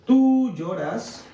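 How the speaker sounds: words stretched out slowly; drawn-out, word by word; slow dictation. Real, not acted. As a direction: dictate at writing speed. Slowly dictating sentence while writing it.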